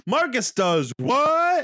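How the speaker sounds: slow, high, shouted wrestler voice; drawn-out Hulk Hogan bellow. Retold or imitated. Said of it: "I do like Hulk Hogan".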